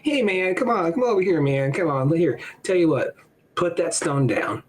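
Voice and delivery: lightly voiced coaxing buddy, pitched a bit up; a hint of a cajoling hippie; Jesus. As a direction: gently talk a friend into it. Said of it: "He's like".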